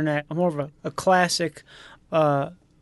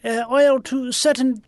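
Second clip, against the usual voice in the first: put-on George W. Bush without the accent; 3 semitones higher than usual. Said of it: "Can you do a George W. Bush impression and lose the accent".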